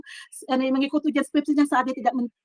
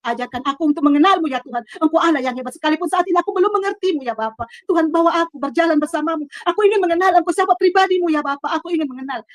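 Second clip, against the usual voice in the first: loud, raised, pleading prayer; weeping worship prayer, retold; 4 semitones higher, 5 dB louder than usual. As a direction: cry out to God, reliving the plea without real sobs. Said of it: "saya menyembah, menangis". (doa memohon dengan seruan lantang)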